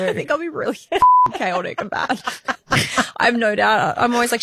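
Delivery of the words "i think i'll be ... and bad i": laughing. Real, not acted. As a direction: giggle through it, half embarrassed. Laughing confession of being bad.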